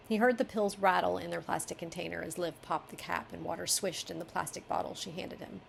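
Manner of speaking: steady manuscript reading; story narration. Acted. Editor reads the revised line to the author, story narration. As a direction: read the passage as finished prose.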